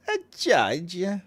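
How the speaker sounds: 1 mock judging. Reading chat mockingly.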